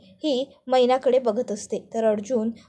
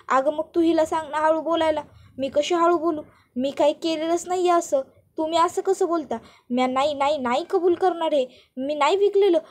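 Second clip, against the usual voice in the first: lightly acted indignant village mother, slightly raised pitch; rustic mother protesting; 3 semitones higher than usual. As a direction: plead and protest your innocence in dialect. Storyteller plays protesting Maina. (गावरान आईचा कळवळून निषेध)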